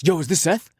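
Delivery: brash, pushy greeting; aggressive. Retold or imitated. Friend on the phone, greeting Seth brashly. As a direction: bark it like a bro calling. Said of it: "Why so aggressive?".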